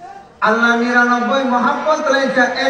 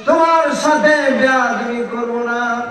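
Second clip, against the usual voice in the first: crying out to mother. Acted. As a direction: cry out to mother at the door, then beg. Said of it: "চিৎকার দিয়ে বলে".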